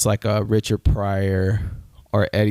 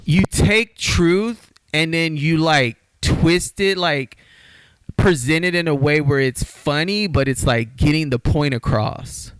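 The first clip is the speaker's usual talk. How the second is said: raised pitch, fired-up rant; riled up; 5 semitones higher than usual. Real, not acted. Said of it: "why I'm getting all riled up".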